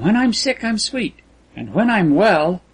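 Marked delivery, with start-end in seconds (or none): 0.0-1.1 lifted high and sweet; high girlish lilt. A narrator's reading. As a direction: pitch it up for her sweetness. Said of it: "her eye continued".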